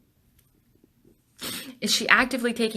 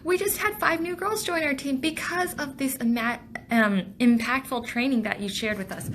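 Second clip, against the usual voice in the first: higher-pitched gushing thanks; imagine a delighted trainee reporting back; lightly voiced grateful team member; 5 semitones higher than usual. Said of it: "Tabitha comes back and reports to me".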